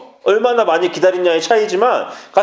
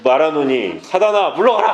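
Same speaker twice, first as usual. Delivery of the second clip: mock brave rebuke. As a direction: act out banishing the devil, rising on the last word. 무서워서 사단을 쫓던 일 재연. (느리게 시작해 높여 외치는 명령 흉내)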